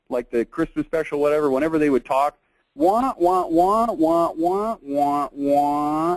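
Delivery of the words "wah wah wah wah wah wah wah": very slow wah wah, every wah drawn out. Explaining what something sounds like, imitating Charlie Brown's mother's wah-wah. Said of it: "Charlie Brown's mother in the Peanuts cartoons".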